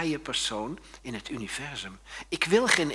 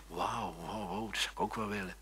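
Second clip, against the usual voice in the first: soft, quick mock envy; longing murmur of envy; a hint of covetous awe; hushed envious wow; 4 semitones lower, 10 dB quieter than usual. Envious admiration voiced.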